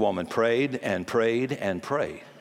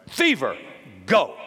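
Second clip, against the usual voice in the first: sharp command. Retold or imitated. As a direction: order the fever out. Jesus rebuking a fever.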